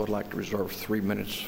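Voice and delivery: hard to hear. Real, not acted. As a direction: let the volume drop away from the microphone. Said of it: "I can't hear you".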